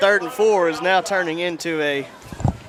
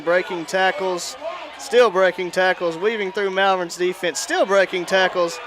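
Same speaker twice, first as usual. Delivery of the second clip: excited; 2 semitones higher than usual. Real, not acted. Building call of a long run.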